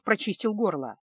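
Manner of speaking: ordinary delivery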